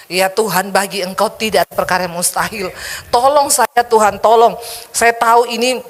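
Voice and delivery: earnest retold prayer, pleading Tuhan to help. A wife with a fishbone in her throat prays to Tuhan, earnest pleading. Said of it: "saya bilang".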